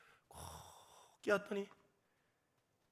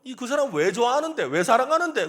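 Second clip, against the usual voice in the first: acted young questioner; 7 semitones higher, 13 dB louder than usual. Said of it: "젊은 사람들이 그러잖아요".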